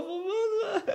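high-pitched imitated wail, breaking into laughter; playful imitation of a sobbing client; mock crying. Painter imitating his client in tears, mock crying.

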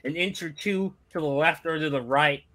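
lightly voiced veteran wrestler's promo; a modest attempt at a battle-worn wrestler; Terry Funk. Host attempting a wrestling legend's promo for friends, lightly impersonated. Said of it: "trying to do a Terry Funk impression".

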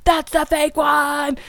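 gleefully shouting the wrong guess at the TV, slowly; excited exclaim. Retold or imitated. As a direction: call it out like a cake-show contestant. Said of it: "and I was like".

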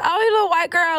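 imitating strangers. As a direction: play someone sizing up a girl. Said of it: "they be like".

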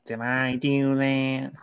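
lightly voiced sitcom catchphrase, drawn out; slow, stretched-out put-on voice; Steve Urkel impression. Podcaster proving the impression to co-host, Steve Urkel impression. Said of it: "an impression of a character".

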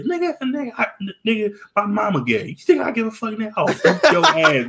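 high-pitched outburst, breaking into laughter; mock indignant threat. New Yorker brushing off a rider's excuse, mock indignant. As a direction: protest high, then draw out the threat laughing.

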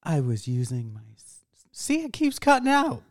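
whispered sultry tone; breathy seductive whisper. Acted. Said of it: "Trying to use my sultry voice".

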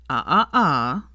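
slow, wagging "ah, ah, ah"; accusing. Acted. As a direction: scold him with a wagging finger. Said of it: "pointing an accusatory finger".

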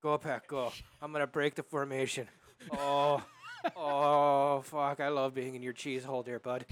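mock Wisconsin sports-fan accent; hammed-up Wisconsin accent. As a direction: cheer on the team in broad Wisconsin. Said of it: "that Wisconsin accent".

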